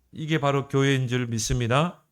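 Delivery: normal talking voice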